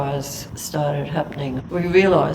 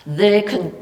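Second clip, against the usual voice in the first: voice breaking; 5 semitones higher, 6 dB louder than usual. Real, not acted. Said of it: "sorry, I get a bit teary about this".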